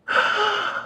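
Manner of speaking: big theatrical sigh, high and breathy; dramatic sigh. Acted. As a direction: sigh it out like a diva. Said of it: "Yes, that was a dramatic sigh".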